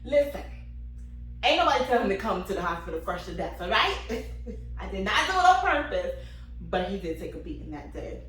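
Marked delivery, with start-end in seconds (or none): 0.0-6.1 louder, fast, laughing defiance; defiant sass. Real, not acted. Mother defending ruining his whites: louder laughing defiance. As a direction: own it loudly.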